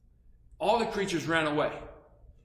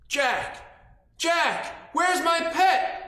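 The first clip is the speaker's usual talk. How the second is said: high, loud calling, building to a slow question; hammed-up demanding giant; giant's demand; 12 semitones higher, 4 dB louder, much slower than usual. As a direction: call for Jack, then bellow the question. Giant demands his pet.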